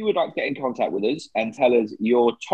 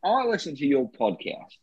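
put-on Australian accent. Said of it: "George Lazenby here".

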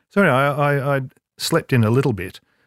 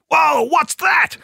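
high, loud startled cry; startled whoa; 4 dB louder, much slower than usual. Retold or imitated. Brad stopping mid-shot at a loud noise, startled high cry. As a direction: jump at the sudden noise.

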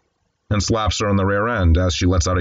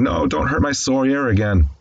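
higher-pitched mock plea; mildly whimpered, pitched up; retold whimper; 6 semitones higher than usual. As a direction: lightly imitate a frightened child pleading.

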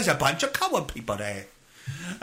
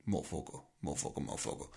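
muttered curse; 17 dB quieter, much faster than usual. Pretend. Muttered curse within guard rant.

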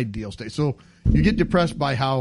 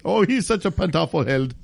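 put-on Austrian accent; 3 semitones higher than usual.

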